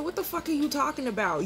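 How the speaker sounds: incredulous retort, acted out; retold indignant challenge. Retold argument with the man.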